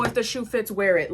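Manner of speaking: tossed-off retold saying; quoted saying. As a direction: quote it lightly in passing. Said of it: "it was not one of those".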